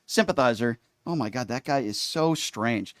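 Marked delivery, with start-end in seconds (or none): 0.0-0.8 stiff, mechanical robot voice. Pretend. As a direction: speak like a monotone robot. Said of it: "I am talking like a robot".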